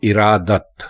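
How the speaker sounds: ارادت as "i-raa-dat", i first; correct pronunciation. Shown as a demonstration. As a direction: say ارادت with zer under alif. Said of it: "درست لفظ ہے".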